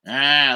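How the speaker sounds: grumbled "ah" of disapproval; curmudgeonly grunt. Retold or imitated. Grandson mimicking his judging grandpa, curmudgeonly grunt. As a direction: imitate a grizzled grandpa grunting at things. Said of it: "like, just grunting at stuff".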